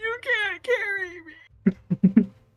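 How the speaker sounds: put-on sobbing voice. Retelling what she said while still sobbing, imitating someone sobbing. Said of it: "Still like sobbing and all that".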